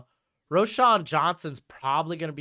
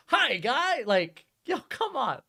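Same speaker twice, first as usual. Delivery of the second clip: mock Italian guy; 9 semitones higher, slower than usual. Mock Italian hand talk.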